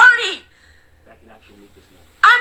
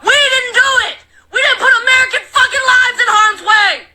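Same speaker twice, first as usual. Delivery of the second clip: angry shout; 3 semitones higher than usual. Real, not acted. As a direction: slam each denial at the viewers.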